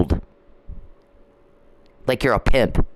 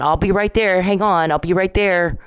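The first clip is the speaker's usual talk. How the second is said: imitated call-out; 5 semitones higher than usual. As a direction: call out to a crying baby from another room. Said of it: "and I'm yelling".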